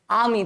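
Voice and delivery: "आर्मी" with a silent r; long "aa" in "आर्मी", no r; correct pronunciation. Shown as a demonstration. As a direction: say "आर्मी" as "aa-mee". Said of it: "the right pronunciation is army".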